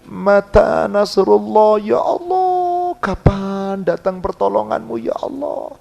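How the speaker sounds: slow, drawn-out cry to God; pleading prayer. Acted. Preacher voicing a desperate prayer to God, pleading. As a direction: stretch out each ya Allah in anguish.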